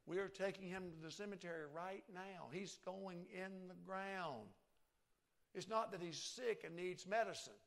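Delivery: rising despair ending in He is dead; mild mock grief growing loud; mother's disbelief. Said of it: "she's thinking".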